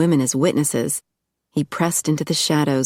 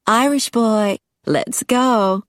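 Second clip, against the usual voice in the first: calling out; 6 semitones higher, slower than usual. A narrator's reading. Lindsay calling Angus into the elevator, high call. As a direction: beckon him from the elevator. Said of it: "Lindsay called".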